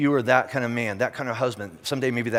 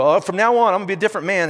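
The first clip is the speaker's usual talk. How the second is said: mock fired-up vow; 6 semitones higher, 5 dB louder, faster than usual. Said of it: "They go".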